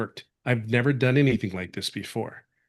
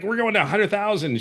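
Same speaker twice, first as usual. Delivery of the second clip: imitating fired-up boss; 9 semitones higher than usual. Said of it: "She'd get all fired up".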